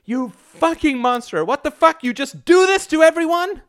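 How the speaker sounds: very high-pitched raging accusation; furious screeching. A narrator's reading. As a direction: scream the accusation at him. Wife beating husband, accusing him.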